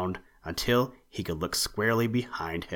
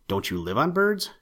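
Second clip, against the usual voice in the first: lightly wide-eyed asking; innocent question; 4 semitones higher than usual. Acted. Curious rabbit asking the owl, mildly innocent. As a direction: ask it guilelessly. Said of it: "asked Peter innocently".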